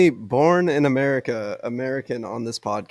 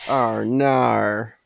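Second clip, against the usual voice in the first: drawn-out "Ar nar" in fake Australian; mock Australian accent. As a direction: parody an Australian "oh no", stretching both words. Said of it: "the only word in Australian I know is nar".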